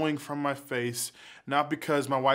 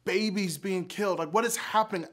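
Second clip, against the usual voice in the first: higher, fast, pleading why; angry plea to God; 4 semitones higher, faster than usual. Retold or imitated. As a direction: demand answers from God in anguish. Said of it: "I've been angry with God".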